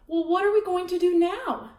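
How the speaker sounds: put-on loud, high, pushy boy voice; bossy loud boy; bossy kid. A narrator's reading. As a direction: demand it like a spoiled guest. Wendell demanding, bossy kid.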